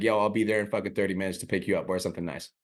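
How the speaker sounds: casual, matter-of-fact telling; easy confidence, dropping at the end; leading the interaction. Acted. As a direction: state the plan as settled, no question in it. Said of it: "the energy of those".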